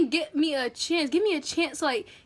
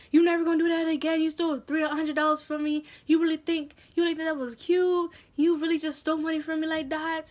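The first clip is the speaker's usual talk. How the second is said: imitated angry mom, slightly raised pitch; mock scolding; 3 semitones higher than usual. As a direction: tell the child off, lightly acted. Mother scolding child after theft.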